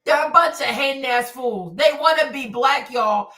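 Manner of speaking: normal talking voice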